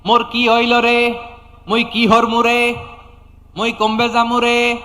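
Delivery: high, slow singsong mock wail; mock lamenting. Preacher imitating people who despair in trouble, mock lament. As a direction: imitate wailing, holding each line high. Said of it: "একদল আছে হাই হুতাশ করে".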